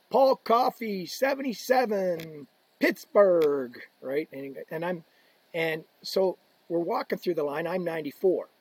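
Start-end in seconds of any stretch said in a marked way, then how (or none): 0.1-3.8 high, drawn-out arena introduction; announcer call. Retold or imitated. Retelling the arena announcer calling players, mock booming. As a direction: boom the name like the PA man. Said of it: "would go out and go".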